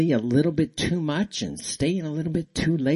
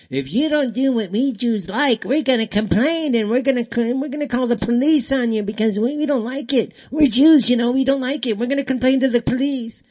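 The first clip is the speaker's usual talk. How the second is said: much higher, put-on complaining voice; mocking whiny voice; 10 semitones higher, 4 dB louder than usual. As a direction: parody the complainers in a hammed-up whine.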